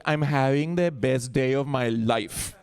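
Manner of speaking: slow, mildly mournful Colombian lilt; mock sad. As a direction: imitate a mother sounding sad on happy words. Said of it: "everything sounds, like, sad".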